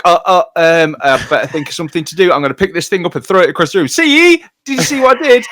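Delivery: rushed and rising, climbing to a shrill peak; hyper kid impression. Mocking kids to his podcast friend, fast and rising. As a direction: rattle it off like an attention-hungry kid. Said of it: "and it's like".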